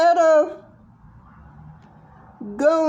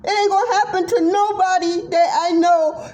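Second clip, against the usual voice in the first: fierce tearful vow; 3 semitones higher than usual. Real, not acted. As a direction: refuse to let it happen again. Vows to protect her family.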